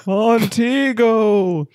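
slow, chilling ghostly croon; low haunting voice. Pretend. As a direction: sing it to give chills. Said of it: "really bringing the chills".

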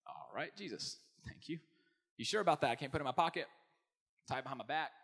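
hammed-up disbelief; mock skeptical listener. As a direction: play the baffled skeptic arguing back. Congregant objecting to Jesus' command.

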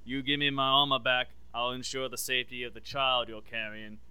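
put-on Boba Fett quoted in a loose Australian accent. Boba Fett bargaining with Mando for his armor, Australian accent. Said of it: "I don't know why I'm Australian now".

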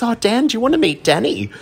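chirpy hostess offering an introduction; high friendly drag queen voice. Retold or imitated. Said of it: "And she goes".

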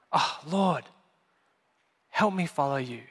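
low, subdued plea to God; demonstrating a short, quiet prayer; simple prayer. Shown as a demonstration.

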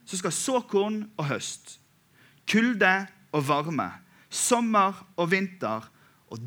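scripture reading. Acted.

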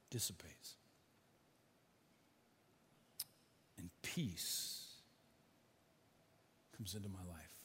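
gentle, hushed sermon close; hushed calm. Real, not acted. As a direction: let the words settle into stillness. Fear fading into peace.

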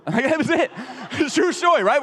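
real laughter through the words; laughing. Real, not acted. Father laughing about the car story. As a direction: laugh as you tell it.

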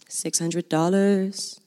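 slow, stretched-out question; price disbelief. Retold or imitated. Reading tent prices online, slowly disbelieving.

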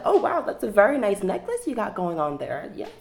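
high, gushing flirty compliment; over-sweet cashier, trailing into a whisper; customer service voice. Retold or imitated. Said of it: "I, like".

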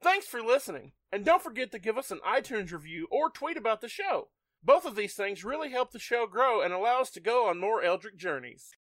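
customer service voice. Shown as a demonstration. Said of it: "do it slower".

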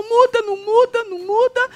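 high, urgent mock protest; insistent protest. Retelling Tonzão objecting to a subject change, high insistent protest.

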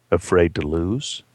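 slow, low muttered challenge. Acted. Gambler challenging a man who won't gamble, low mutter. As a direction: mutter it as a drawn-out taunt. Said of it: "Freddie muttered".

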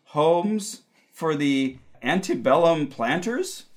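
slow mystic psychic reading; psychic hotline. Acted. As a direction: channel the spirits, slow and dreamy.

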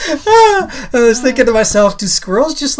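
high, slow words through tears of laughter; laughing. Real, not acted. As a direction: speak through a laughing fit.

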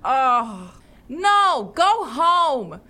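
high, loud mocking brush-off; dismissive scoff. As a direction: shoo the knight away mockingly. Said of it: "looks off the ship and goes".

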